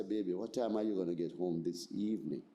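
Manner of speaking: deep, smooth soul-crooner voice. Retold or imitated. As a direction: drop way down and woo her like a soul crooner. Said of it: "put on my Barry White voice".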